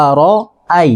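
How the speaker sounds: "আরআই" broken into a-ro-ai; correct pronunciation. Shown as a demonstration. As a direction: repeat "আরআই" with a clear open "ai". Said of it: "এখানে আরআই হবে". ("আরআই", শেষে আলাদা "আই" স্পষ্ট)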